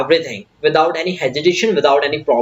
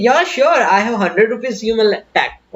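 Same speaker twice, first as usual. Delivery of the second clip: eager polite yes; 3 semitones higher, much slower than usual. Shown as a demonstration. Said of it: "तो आप उसे ऐसे बोल सकते हैं".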